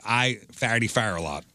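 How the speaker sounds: FARADAY FIRE for forty-four, OR turned to AR; Saint Louis pronunciation. Shown as a demonstration. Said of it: "get ready to make the joke".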